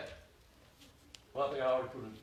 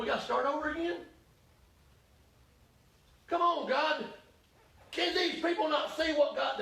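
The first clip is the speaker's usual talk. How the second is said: exasperated Elijah; 4 semitones higher than usual. Acted. Elijah voiced complaining to God.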